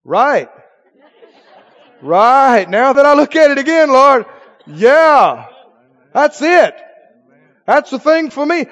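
suddenly delighted by God's will; laughing agreement. Acted. Believer laughing and agreeing with the Lord, eager. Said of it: "You go".

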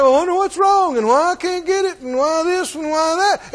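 hammed-up complaining believer; whiny confused asker. Preacher mocking the doubter who asks everybody. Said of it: "going around asking everybody".

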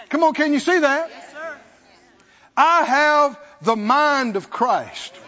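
ordinary delivery

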